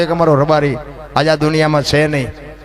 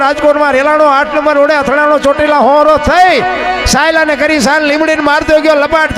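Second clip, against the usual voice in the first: poem recital; 8 semitones higher than usual. Acted. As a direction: chant the village list faster and fiercer, like the quake spreading. Folk storyteller recites earthquake poem.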